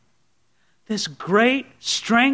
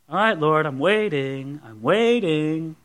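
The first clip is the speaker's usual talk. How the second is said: low, subdued mock patience, drawn out at the end; half-hearted prayer of someone just sitting; mock idle waiting; 4 semitones lower, slower than usual. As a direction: act out passively waiting, stretching the last word. Acts out passive, idle waiting.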